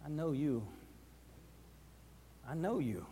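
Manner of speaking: soft, hushed recognition; quiet accusing maid. Acted. Maid quietly accusing Peter by the fire, hushed. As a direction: murmur it like she's sure it's him.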